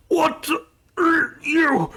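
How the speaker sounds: high startled cry; high shocked cry from the wounded guy; shocked outburst. Acted. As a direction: blurt it out in shock and pain. Struck guy shouts in shock.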